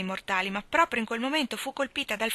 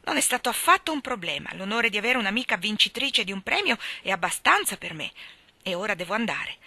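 lightly voiced brisk girl; a hint of proud modesty; generous Diana. Diana declines and leaves. (ragazza che rifiuta con garbo)

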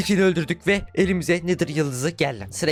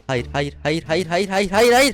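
rising panicked no; 3 semitones higher, slower than usual. Real, not acted. About to die, repeated no.

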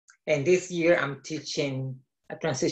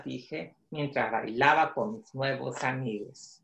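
measured read-aloud storytelling in Spanish; story narration. A narrator's reading. Author reading his book in Spanish to children, storytelling voice.

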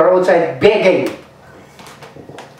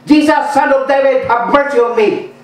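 high pleading cry of a blind beggar; retold shout; 4 semitones higher than usual. Blind man crying out to Jesus, mock shout. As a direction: call out to Jesus for mercy, pitched up. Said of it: "Ang sigaw niya ito".

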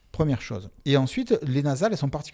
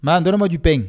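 heavy Marseille "pain" as "pèng", louder; strong Marseille accent, "donne-moi du pain"; 3 semitones higher, 6 dB louder than usual. Shown as a demonstration. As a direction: lay the Marseille accent on thick. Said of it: "avec un accent encore plus prononcé".

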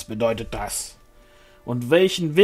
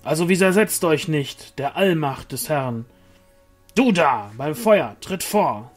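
loud, higher stern order; commanding; 4 semitones higher, 4 dB louder than usual. A narrator's reading. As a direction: order him forward sternly. Angel commands the crowd.

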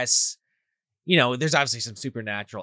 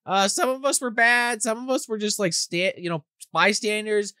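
high-pitched chorus of accusing ghosts; imitated ghosts; 9 semitones higher than usual. Ghosts confront the man who killed them, high imitation. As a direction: play the ghosts in a raised voice. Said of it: "these, like, ghosts start coming out".

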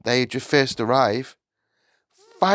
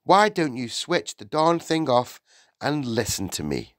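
exasperated teacher, pitch raised; firm, higher-pitched telling-off; losing patience; 8 semitones higher, 3 dB louder than usual. A narrator's reading. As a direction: scold him with mounting impatience. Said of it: "began to lose patience".

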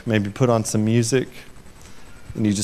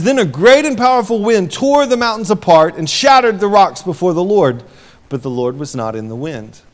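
dramatic reading; 8 semitones higher, 5 dB louder than usual. Real, not acted.

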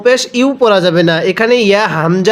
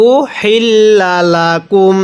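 tajweed recitation. Shown as a demonstration. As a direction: chant উহিল্লা লাকুম as in Quran recitation. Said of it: "কিভাবে পড়ব?".

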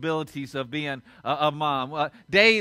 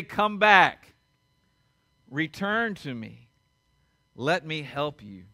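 tender call; 4 semitones lower, slower than usual. Acted. Jesus answering the weary.

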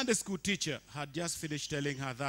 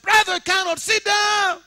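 high, loud shouted reply; shouted back; 20 dB louder than usual. Retold or imitated. Dancer shouting back at the leader, loud refusal. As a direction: yell it over the music. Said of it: "And I was like".

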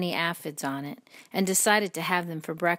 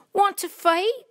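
loud, slow, rising challenge; grouchy challenge; 7 dB louder than usual. A narrator's reading. Grouchy ladybug picking a fight, loud rising challenge. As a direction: dare them, voice raised and climbing.

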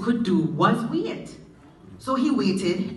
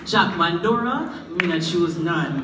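formula ending; 6 semitones lower than usual. Shown as a demonstration. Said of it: "every story concludes with".

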